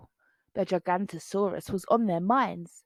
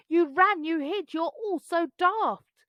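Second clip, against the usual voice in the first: teasing; 7 semitones higher than usual. A narrator's reading. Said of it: "Bonehead laughed".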